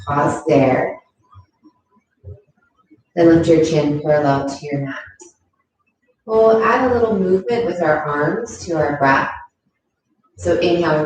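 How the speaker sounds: calm, unhurried yoga teacher voice; guided yoga instruction. Acted. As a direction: guide gently through each movement, leaving long pauses. Leads a yoga practice.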